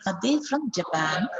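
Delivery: "Japan" carries the stress in the question. Shown as a demonstration. Teacher models a question for learners, stress on Japan. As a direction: stress "Japan", pass lightly over "Are". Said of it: "stress on Japan".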